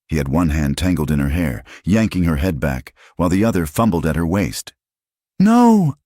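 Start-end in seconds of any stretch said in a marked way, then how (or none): 5.4-6.0 sudden high shout of refusal; cry out. Acted. Woman fighting off her attacker, shouting no. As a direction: scream no at him with everything. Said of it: "Nora cried out".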